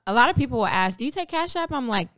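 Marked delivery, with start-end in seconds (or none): 1.0-1.7 imitating a customer.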